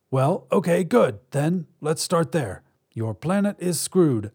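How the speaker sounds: a hint of a blunt alien. Alien delivering bad news.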